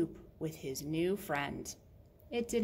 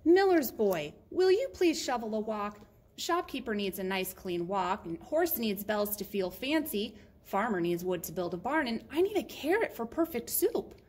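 earnest little favour-seeker; pleading Murray, lightly voiced; 2 semitones higher, 4 dB louder than usual. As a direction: rattle off everyone's needs, lifting at your own. Story figure begs a favour.

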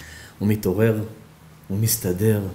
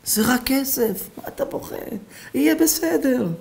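soothing doctor; 12 semitones higher than usual. Acted. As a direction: coax him like a child. Doctor comforts crying old man.

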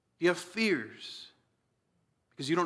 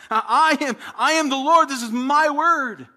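higher, louder, proclaiming; commanding declaration; 6 semitones higher, 9 dB louder than usual. Pretend. Preacher voices Jesus claiming authority, loud and proclaiming. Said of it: "In other words".

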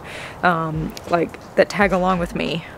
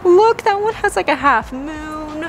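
excited; 8 semitones higher than usual. Real, not acted. Shopper spotting a rare leaf, excited and high. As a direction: point it out in a rush of delight.

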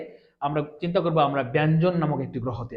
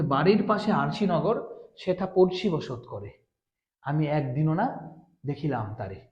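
reciting a Baul song; 2 semitones lower than usual. Retold or imitated. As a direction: savour the lyric slowly, like reciting a Baul song. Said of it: "বলছে".

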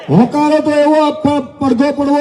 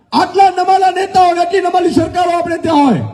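1 indignant shout; 5 semitones higher than usual. Real, not acted. Rally speech attacking the government.

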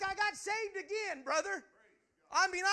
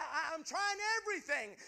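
crying. Retold or imitated. Retelling weary prayer to God.

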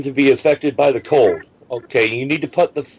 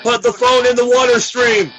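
panicked shouting; 9 semitones higher than usual. Acted. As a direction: yell it like the lab is failing. Faked emergency.

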